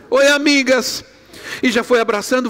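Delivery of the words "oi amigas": put-on child's voice. Granddaughter greeting, retold.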